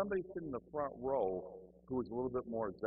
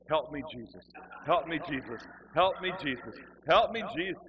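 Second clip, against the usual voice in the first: repeated plea building steadily louder; mock pleading; 7 dB louder than usual. Kneeling alone in the front, mounting comic plea. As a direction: start contained, grow more desperate with each plea.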